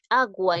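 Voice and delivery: "agua" with the u sounded as a w glide; pronounced U. Shown as a demonstration. Teacher showing students the U is sounded, "agua" with audible u. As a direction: say "agua" firmly, letting the u be heard before the a. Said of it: "sí estoy pronunciando la U".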